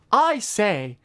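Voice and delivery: put-on British voice. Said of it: "I put on a voice and I say".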